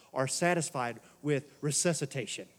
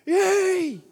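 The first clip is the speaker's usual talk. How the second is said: mock cheer; 12 semitones higher, 9 dB louder than usual. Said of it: "I'm like".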